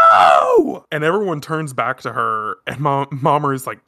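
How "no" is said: a sudden loud shout of no; retold scream. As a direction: yell it out to stop everyone. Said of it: "And she's screaming".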